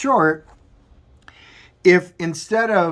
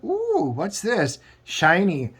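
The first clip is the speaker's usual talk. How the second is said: put-on childlike wonder; 3 semitones higher, slower than usual. Marjorie drawn to shiny portal.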